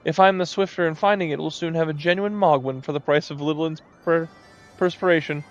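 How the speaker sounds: high, gleeful scheming moogle. Acted. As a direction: rejoice over a bargain. Greedy moogle rejoices.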